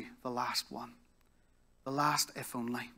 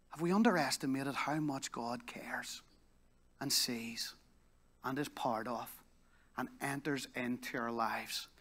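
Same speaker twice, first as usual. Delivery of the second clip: hushed appeal; 6 dB quieter, slower than usual. Real, not acted.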